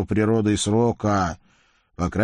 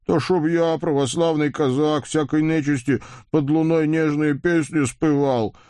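angry roar; 6 semitones higher than usual. A narrator's reading. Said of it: "гневно взревел Вакула".

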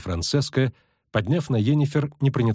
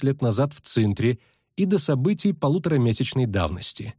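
a touch of formal persuasion; measured pitch of an invitation to a secret order; lightly voiced, composed elf envoy; lightly voiced elf sorceress; 6 semitones higher than usual. Voices elf laying out terms.

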